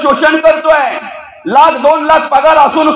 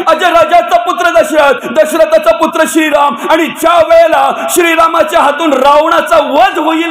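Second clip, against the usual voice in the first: calling out prophecy; 4 semitones higher than usual. Acted. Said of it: "तो आतला बोलतोय".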